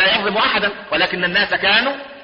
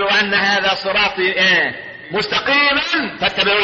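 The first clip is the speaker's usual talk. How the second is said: Quranic recitation; 2 semitones higher, slower than usual. Acted. Preacher quizzing the congregation mid-verse, slow chant. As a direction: draw it out, pausing to prompt.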